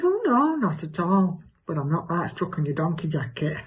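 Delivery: hammed-up chatty gossip with leaping pitch; exaggerated comic self. Telling Cheryl about her new neighbour, exaggerated comic gossip. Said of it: "do an exaggerated version of myself".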